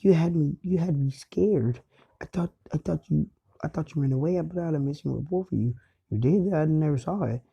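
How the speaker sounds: worried mother. Retold or imitated. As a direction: plead like a mom who was scared. Worried mom confronts returning son.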